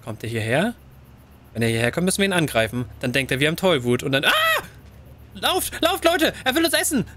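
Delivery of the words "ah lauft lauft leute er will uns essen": high frantic warning to run; panicked. Real, not acted. Human approaches, fleeing. (hohe panische Warnung)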